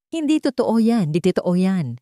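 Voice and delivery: cornered wife shouting her denial; sudden shout. Acted. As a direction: blurt it out in a sudden yell. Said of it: "biglang sigaw ni Solana".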